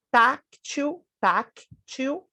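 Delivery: "táctil" slow and high, strong TÁC; stress on penultimate syllable. Shown as a demonstration. Teacher showing a paroxytone to students, slow stressed first syllable. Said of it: "paroxítona terminada em L".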